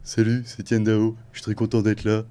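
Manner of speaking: monotone singer voice. Shown as a demonstration. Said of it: "il faut faire du monocorde".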